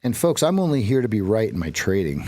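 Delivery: ordinary delivery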